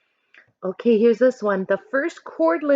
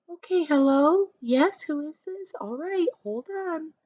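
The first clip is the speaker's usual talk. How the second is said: polite phone voice; 8 semitones higher than usual. Shown as a demonstration. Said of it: "She is using good manners".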